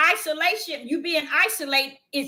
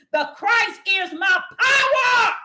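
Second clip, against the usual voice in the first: voicing the Lord; 4 semitones higher than usual. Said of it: "tell him, Deborah".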